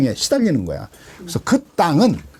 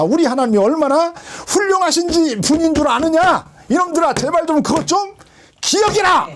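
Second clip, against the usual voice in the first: Moses exhorting; 4 semitones higher than usual. Retold or imitated. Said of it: "모세가 그들에게 말했다는 거야".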